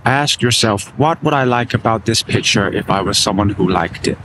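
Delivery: bad New York accent; lightly put-on New York accent. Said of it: "That's a terrible New York accent".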